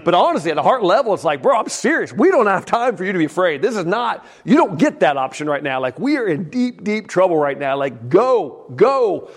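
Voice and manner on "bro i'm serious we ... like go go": higher, urgent retold yell. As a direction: push the boy to row, hard and urgent. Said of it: "I'm yelling at my son".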